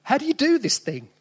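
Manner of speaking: high, bewildered panic; a new father suddenly lost at sea; a new dad bringing his baby home, panicking; panicked new dad. Retold or imitated.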